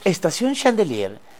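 slow, lightly acted metro announcement; mock station announcer. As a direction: announce the stop with a hint of French.

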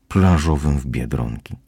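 ordinary delivery

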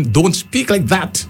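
a mild, slow scolding, with the weight on speak; lightly voiced teacher telling a child off. Recalling a teacher correcting a child's dialect, in a mild slow scold. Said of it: "you would have heard this".

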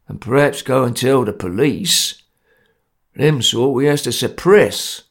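a hint of a menacing Cockney tough; a rough gang boss laying down the law, lightly voiced; lightly voiced grim ruffian. Grim gang leader threatening.

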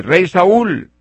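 called out high and loud across a distance; high, loud calling voice. Retold or imitated. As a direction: shout it up to the king far away. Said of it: "le grita".

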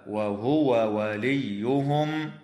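"وهو وليهم" with the two waws said distinctly, not merged; clear separate waw. Shown as a demonstration. Sheikh showing how to keep both waws distinct in "وهو وليهم", slow and careful. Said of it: "يجب إظهار الواو عند الواو".

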